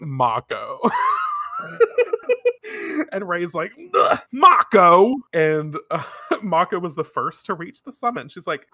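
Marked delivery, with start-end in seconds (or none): 0.8-3.1 high shouted laugh; shrieking laugh. Real, not acted. Laughing at the scene. 3.9-5.2 loud, high, annoyed cry; exasperated shout. Acted. Rei annoyed at Mako.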